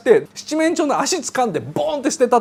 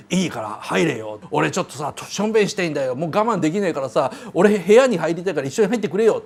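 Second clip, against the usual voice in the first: pushy Rocky; 5 semitones lower, 5 dB quieter than usual. Retold or imitated. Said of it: "というふうな感じで".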